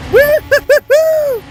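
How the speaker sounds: slow, high, loud woo-hoo; excited whoop. Real, not acted. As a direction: whoop with glee, drawn out. Tumbling car.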